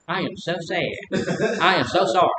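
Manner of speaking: mock sorrow. Husband faking sorrow to his wife over mirrors, hammed-up sad. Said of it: "Lied like a dog".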